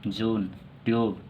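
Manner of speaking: जून and ट्यूब said slowly, long oo vowel drawn out; teacher modelling जून, ट्यूब with long oo; slow pronunciation demo. Shown as a demonstration. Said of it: "हम pronunciation कैसे करेंगे".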